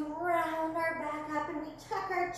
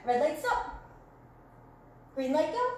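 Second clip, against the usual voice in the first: game calls. Shown as a demonstration. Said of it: "when I say green light".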